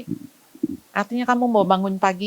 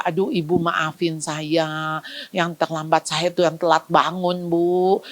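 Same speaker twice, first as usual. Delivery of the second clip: apologetic parent; 3 semitones lower, slower than usual. Retold or imitated. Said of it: "Ada orang tua datang ke saya begitu".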